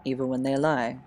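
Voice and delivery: measured poem reading with long pauses. Acted. Sharing own teenage poems with listeners, poem reading. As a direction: read it line by line, letting each phrase rest.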